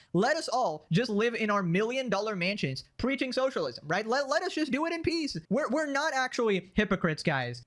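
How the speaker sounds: sarcastic mock socialist plea; sarcastic mockery. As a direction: plead like a smug rich socialist. Sarcastically voicing Hassan's defense.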